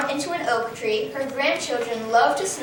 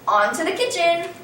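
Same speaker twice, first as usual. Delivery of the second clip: triumphant cry; 4 semitones higher than usual. A narrator's reading. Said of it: "and cried".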